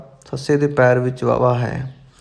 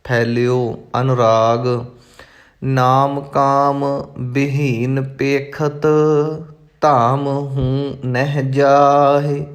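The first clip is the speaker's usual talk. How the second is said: measured, careful recitation of sacred verse; intoned verse for learners; scripture recitation; much slower than usual. Acted. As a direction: recite each phrase distinctly, holding the endings.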